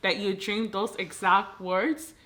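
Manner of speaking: emotional retelling, voice crying; crying while talking. Real, not acted. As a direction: push the words out through real tears. Telling sister's dream came true.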